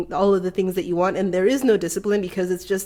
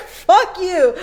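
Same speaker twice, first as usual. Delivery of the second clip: higher, louder, laughing through it; laughing mock fury; 8 semitones higher, 6 dB louder than usual. Retold anger at nobody, laughing mock fury. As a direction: snap it out half laughing.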